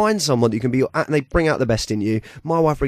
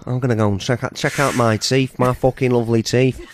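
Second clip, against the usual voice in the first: put-on Manc accent. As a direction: lay on a Mancunian accent like a rock singer. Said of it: "I love the Manc accent".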